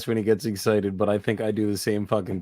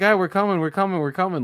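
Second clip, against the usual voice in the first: excited; 8 semitones higher than usual. Retold or imitated. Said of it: "we were like".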